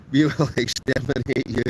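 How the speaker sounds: laughing through a mock Dalek threat. Camper hamming up a Dalek line for chat, laughing. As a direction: play the Dalek, breaking into a laugh. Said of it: "sound like the Daleks".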